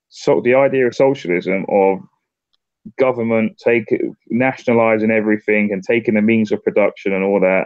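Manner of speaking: mock debate retort. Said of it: "it's just like".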